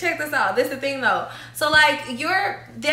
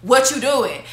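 sincere respectful message. Retold or imitated. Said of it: "there's things like".

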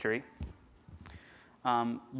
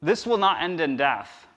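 slow, louder promise with weight on not; firm quote; 4 semitones higher, 6 dB louder than usual. Retold or imitated. Jesus assuring his disciples, slow and firm. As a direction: declare it steadily. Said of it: "He told the disciples".

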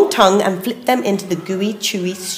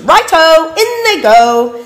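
Dingo voice; 7 semitones higher, 4 dB louder than usual. A narrator's reading.

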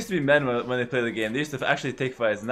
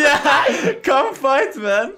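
shouted, laughing challenge; loud taunt; 12 semitones higher, 9 dB louder, much slower than usual. Real, not acted. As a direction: yell it as a dare. Taunting opponent to fight.

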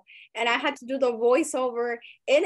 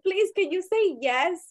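coaxing plea; 6 semitones higher, slower than usual. Retold or imitated. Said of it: "I was like".

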